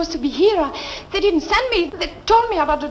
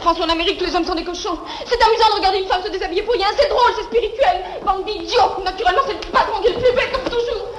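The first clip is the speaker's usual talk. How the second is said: French rant; 2 semitones higher, faster than usual. Acted.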